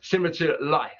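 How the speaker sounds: "life" with a broad, open vowel; London "life" with a wide I. Shown as a demonstration. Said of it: "that broader sound for that I sound".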